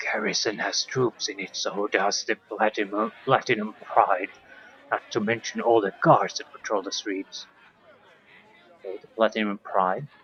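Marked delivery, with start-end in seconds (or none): 0.0-7.5 hushed, secretive whisper. Voicing an innkeeper answering a question about soldiers: whispering innkeeper. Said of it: "lowers his voice to a whisper".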